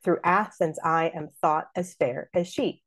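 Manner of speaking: even da-DUM iambic beat; beating out iambs. Shown as a demonstration. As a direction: scan the verse foot by foot. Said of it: "beat out".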